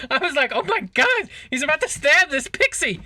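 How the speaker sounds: high, laughing through the words; can barely get it out for laughing; real laughter; laughing hard. Real, not acted. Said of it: "I lost my shit".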